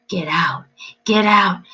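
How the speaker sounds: a thin, high whisper-shriek from the dark; thin high demon voice. A narrator's reading. Demon shrieking at the intruder, thin and high. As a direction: hiss it out like a small demon. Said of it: "high voice calling in the darkness".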